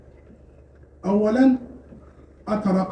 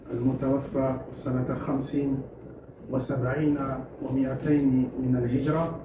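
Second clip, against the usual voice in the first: low, fast, subdued opening recitation; formal Arabic recitation; 6 semitones lower, 6 dB quieter, much faster than usual. Acted. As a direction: read the formal opening quickly in a lowered voice.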